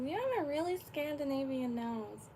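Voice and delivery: light imitation of a thick Boston accent. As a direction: quote her in a Boston accent. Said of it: "a thick Boston accent".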